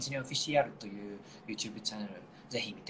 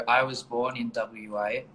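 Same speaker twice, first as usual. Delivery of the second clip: slow, exaggerated Australian accent; hammed-up Australian accent; over-the-top Australian accent; 4 dB louder, much slower than usual. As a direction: lay the Australian accent on thick, slowly. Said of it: "I went over the top of the Australian accent".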